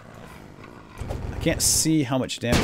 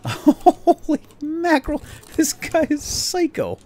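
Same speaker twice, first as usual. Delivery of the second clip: high, slow, stunned cry of disbelief; drawn-out astonished shout; shocked exclamation; 8 dB louder, slower than usual. Real, not acted. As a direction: gasp it out, amazed at the monster. Shocked by the monster boss.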